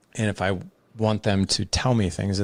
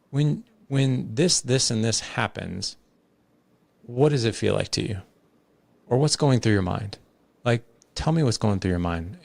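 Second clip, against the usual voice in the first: curious. Shown as a demonstration. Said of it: "that voice tone of curiosity".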